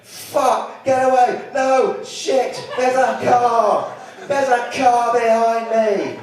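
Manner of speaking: spooked horse yelping at a car behind it; panicked horse. Acted. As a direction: squeal it out like a horse that is scared of the car. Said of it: "the horse is going".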